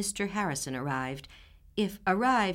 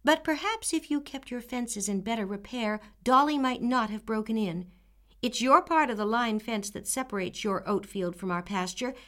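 put-on firm, higher, steady girl; 5 semitones higher, 3 dB louder than usual. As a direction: counter calmly but firmly. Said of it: "repeated Anne firmly".

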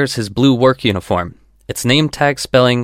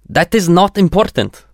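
slightly irritated; 7 semitones higher, 3 dB louder than usual. A narrator's reading. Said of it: "with a slight irritation".

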